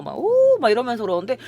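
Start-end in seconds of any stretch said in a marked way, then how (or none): 0.2-0.6 much higher, louder mock catcall; high sliding wolf-whistle oh. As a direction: tease like a catcaller. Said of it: "캣콜링 같은 거 하면서".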